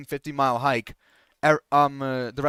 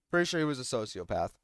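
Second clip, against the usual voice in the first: softer, dropped afterthought; quiet muttered repeat; 4 semitones lower, 7 dB quieter, faster than usual. Real, not acted. Repeating his suspicion about the boy, muttered. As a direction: say it again under the breath.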